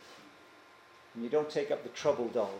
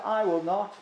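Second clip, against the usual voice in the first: firm, raised self-confident refusal; boastful; 5 semitones higher, 4 dB louder than usual. Acted. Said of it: "they were boasting".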